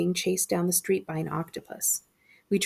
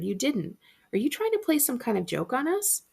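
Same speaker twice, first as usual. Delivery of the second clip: Mom voice; 6 semitones higher than usual. A narrator's reading. Mom answering.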